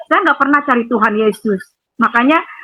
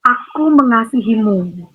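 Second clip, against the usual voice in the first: gentle loving voice; 3 semitones lower, slower than usual. Retold or imitated. Woman recalls the mysterious voice, slow and tender. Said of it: "Dan itu lembut banget".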